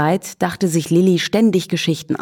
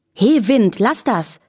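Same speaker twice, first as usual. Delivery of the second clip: rufend; 4 semitones higher, slower than usual. Acted. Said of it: "rief Lilli".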